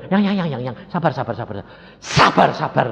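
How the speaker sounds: lightly voiced wife trying to calm him; imitating gentle wife. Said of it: "Istri saya yang lembut biasa gini". (menirukan istri yang menenangkan)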